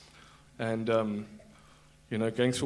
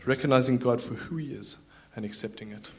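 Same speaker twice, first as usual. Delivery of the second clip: a louder, proclaiming repeat; declared aloud; 4 dB louder than usual. Shown as a demonstration. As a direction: proclaim it to the room. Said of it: "Say it, just say it one more time".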